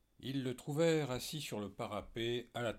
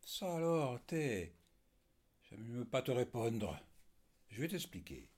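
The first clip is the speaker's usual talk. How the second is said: much higher and louder, barely holding back; indignant outburst; 4 semitones higher, 4 dB louder than usual. Acted. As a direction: choke on outrage, then refuse to answer. Papé's eyes flash in anger.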